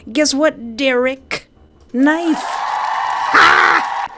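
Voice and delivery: high, loud triumphant rant building to a shout; excited gloating. Real, not acted. Streamer gloating at Derek as he stabs him, excited. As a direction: crow over the enemy and yell it out.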